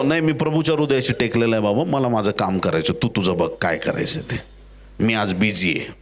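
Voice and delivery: low, offhand brush-off; lightly acted, too busy to help; dismissive refusal. John brushes off the plea.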